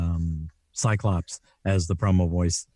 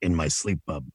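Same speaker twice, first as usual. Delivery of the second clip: Wolverine; 5 semitones lower, 4 dB quieter than usual. Retold or imitated. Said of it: "can you do Wolverine".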